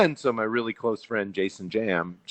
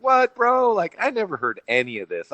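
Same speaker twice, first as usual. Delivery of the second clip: mock-stunned, jumping much higher on what; acting floored by the news; stunned disbelief; 13 semitones higher than usual. Host reacting to the pig slaughterhouse story, stunned disbelief. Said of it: "all crazy".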